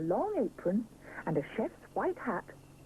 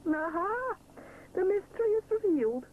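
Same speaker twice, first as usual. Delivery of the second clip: chuckling; 11 semitones higher, 3 dB louder than usual. Acted. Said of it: "chuckles Mister Sponge".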